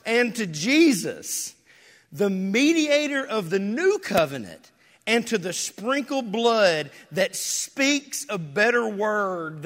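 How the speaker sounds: rising preacher's scripture reading; scripture reading building to proclamation. Acted. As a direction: read the passage like it lifts the room. Reads scripture aloud, building up.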